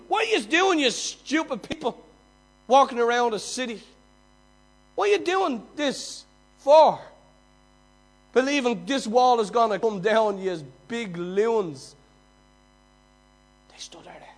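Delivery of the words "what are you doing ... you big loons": loud, high mocking yell at the marchers; mocking jeers. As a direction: jeer at them from the wall, much higher and louder. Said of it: "People mocking them".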